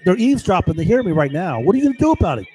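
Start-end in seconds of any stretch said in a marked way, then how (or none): 1.6-2.5 raised defiant challenge, higher; repeating the dare to unseen listeners; angry shout. Real, not acted. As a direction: throw the question back at them, angrily. Taunting eavesdroppers who hear him.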